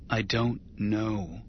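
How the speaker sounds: slow, lost and defeated; slow, helpless admission; helplessly. Acted. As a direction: let it fall out slowly, at a loss. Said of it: "he said helplessly".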